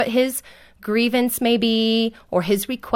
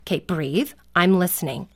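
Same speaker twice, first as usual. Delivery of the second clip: low, calm reassurance; calming parent; 3 semitones lower, 3 dB quieter, faster than usual. Shown as a demonstration. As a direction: settle a worked-up child. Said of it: "sometimes they're really worked up".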